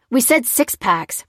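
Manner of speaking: insistent, measured correction; protesting. A narrator's reading. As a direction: object firmly, spacing out the words. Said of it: "protested Dan".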